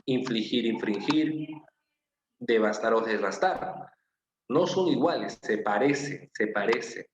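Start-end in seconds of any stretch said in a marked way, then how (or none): 2.4-3.9 "devastar" y "desbastar" dichos despacio, sílaba a sílaba; pronunciación lenta. Shown as a demonstration. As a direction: marca la diferencia entre "devastar" y "desbastar" con calma. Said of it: "inicuo, inocuo". (contrastando "devastar" y "desbastar" despacio)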